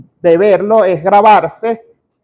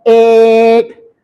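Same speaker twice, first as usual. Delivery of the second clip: drawn-out level fillers broken by louder gibberish babble; filler-word babble; 3 semitones higher, 5 dB louder, slower than usual. Shown as a demonstration. Speech coach mimics speaker whose train of thought disconnected, stalling babble. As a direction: stall on each filler, then babble on one note. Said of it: "Se desconectó".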